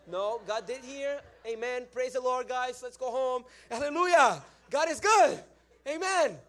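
high, loud, building to shouted hallelujahs; emphatic praise. Retold or imitated. Preacher hurrying everyone home after the miracle, emphatic praise. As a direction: drown out the objection with rising praise. Loudly closing meeting to avoid removal.

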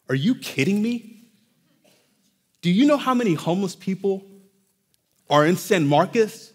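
restrained, disbelieving mock challenge; mock incredulity. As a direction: pretend to be appalled, holding it back. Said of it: "how ridiculous would it be".

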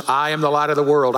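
quick line with weight on "I"; stress on I. Retold or imitated. Girl rehearsing her pageant line, stress on "I". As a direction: lean on the first word, "I". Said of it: "even emphasized the different words".

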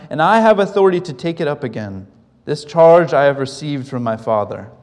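measured, firm Bible reading; formal scripture reading. Acted. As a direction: read the Gospel aloud with authority. Reads scripture aloud.

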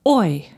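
put-on "Oi" as in boy; German eu sound. Shown as a demonstration. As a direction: say "Oi" as one oy diphthong. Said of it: "The combination E U".

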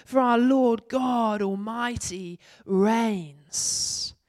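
scripture reading. Acted. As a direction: proclaim the vision to the congregation.

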